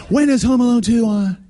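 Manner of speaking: loud, high eager call; mock eager shout. Preacher mocking a fan eager for Home Alone two. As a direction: shout it like an excited kid.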